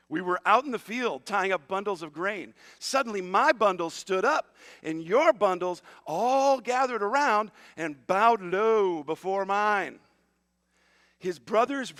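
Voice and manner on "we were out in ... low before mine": loud little-brother boasting, stretched out at the end. Acted. Little brother telling older brothers his dream, loud and boastful. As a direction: build it up like a bragging little brother. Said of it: "a little brother talking like this".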